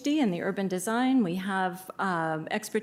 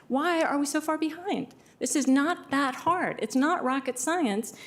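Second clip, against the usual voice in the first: frustrated; 5 semitones higher than usual. Real, not acted. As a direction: spell it out like you're fed up. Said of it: "and frustrated".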